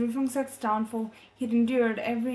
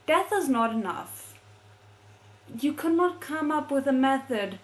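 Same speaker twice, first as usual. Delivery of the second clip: indignant rant; 4 semitones higher than usual. Real, not acted. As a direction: vent your outrage at the villain. Reader ranting about villain.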